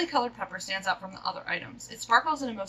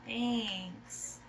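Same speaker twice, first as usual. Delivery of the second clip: usual speaking voice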